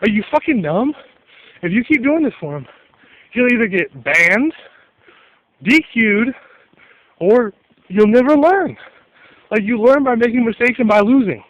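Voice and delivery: mock yelled scolding aimed at his mom; imagined yell at mom. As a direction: lecture the cheating parent, rising to a yell. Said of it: "I wanted to just yell at his mom".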